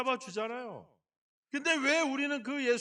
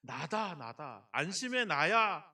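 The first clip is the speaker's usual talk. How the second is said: reassuring Jesus; 7 semitones lower, slower than usual. Acted. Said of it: "예수님이 얘기했잖아요".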